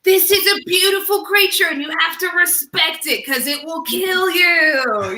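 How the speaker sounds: high, lightly voiced Aussie wildlife host; Steve Irwin impression. Host quoting Steve Irwin on a drunk guest, mild Aussie awe. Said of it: "'cause he was like".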